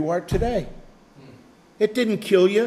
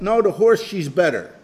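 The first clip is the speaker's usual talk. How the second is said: put-on insistent grandpa, French accent, punched opening. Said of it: "had the French accent".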